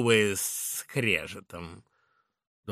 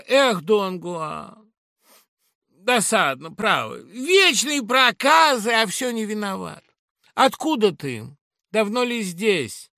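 high, louder chiding; Laura, fond reproach; 10 semitones higher, 10 dB louder than usual. Acted. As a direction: scold him affectionately. Laura chides fondly.

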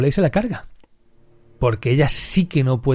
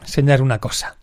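higher, honeyed invitation; sly Landa; 3 semitones higher than usual. Retold or imitated. Landa luring the actress away from her friend, sly and honeyed.

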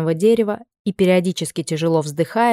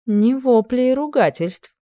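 pleased remark; 6 semitones higher, slower than usual. A narrator's reading. Queen pleased.

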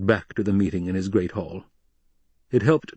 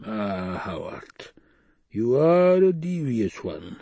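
slow, sly, admiring drawl, the last words pitched up; a villain purring over his clever adviser; sly admiration; 2 semitones higher, slower than usual. Acted. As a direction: savour the compliment slyly. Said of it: "the sly tone of admiration".

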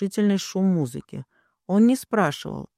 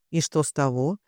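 plain reading voice

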